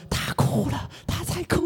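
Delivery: whispered, the second line going high; retold whisper. Teacher whispering to a coworker that the client is crying. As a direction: hiss the news to a colleague under the breath. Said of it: "马上就小声说".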